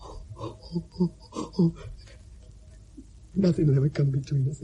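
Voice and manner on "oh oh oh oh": soft unvoiced crying moans; breathless sobbing oh. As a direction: gasp out little sobs. Breaking down.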